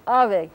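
emphatic "ave", bilabial fricative for V; Spanish bilabial V. Shown as a demonstration. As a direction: say "ave" the Spanish way, lips nearly touching for the V. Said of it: "not pronounced like an English V".

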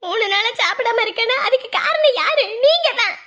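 mother accusing the father over their son. Acted. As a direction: raise the voice and blame him outright. Mother blames husband angrily.

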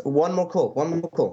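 imitating a drunk guy begging; mock drunk demand.

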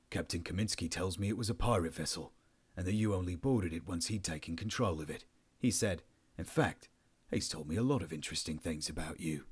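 low, measured officer's voice; understated authority; controlled interrogating officer. Acted. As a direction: state it coolly to the prisoner.

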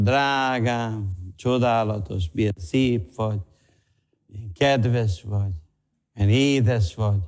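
lightly acted affection, voice brought down; tender sweet talk. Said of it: "valahogy így beszélnek, kicsit másképp. Más a hangerő".

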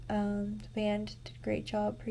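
talking with a retainer in; wearing a retainer. Real, not acted. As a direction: speak around a retainer in your mouth. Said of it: "I've got my retainer in".

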